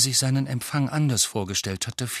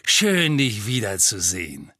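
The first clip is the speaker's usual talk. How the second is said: delighted; 4 dB louder than usual. Acted. Warm welcome from Mr Weasley.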